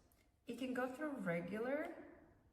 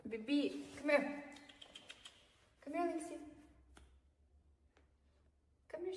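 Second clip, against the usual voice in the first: talking to a dog; 3 semitones higher than usual. Real, not acted. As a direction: sweet-talk the puppy closer. Coaxing dog over.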